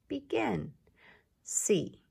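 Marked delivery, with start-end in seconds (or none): 1.4-2.0 "See" breathed in a whisper. Shown as a demonstration. Teacher whispers see before stretching it. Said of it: "let's stretch and shrink see".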